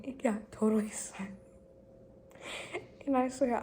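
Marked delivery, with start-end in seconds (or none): 0.1-1.4 whisper. Retold or imitated. Awkward silence retold.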